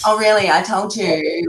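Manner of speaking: light mock Valley Girl inflection; Paris Hilton. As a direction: put on a bit of Valley Girl. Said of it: "just sound like Paris Hilton in Valley Girl".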